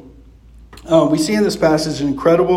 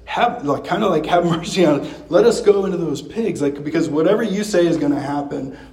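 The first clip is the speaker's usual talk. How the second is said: lightly voiced frightened pleading, pitch raised; demons begging for mercy. Preacher voicing demons begging Jesus, mildly pleading. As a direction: plead for mercy, a touch of fear in it. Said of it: "reduced to a posture of begging".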